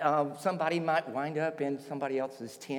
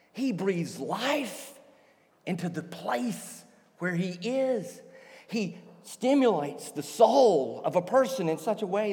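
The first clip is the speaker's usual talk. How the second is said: swelling, higher-pitched acted awe; awed praise; 4 semitones higher than usual. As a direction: marvel aloud, stretching the key words. Guards awed by Jesus' speech.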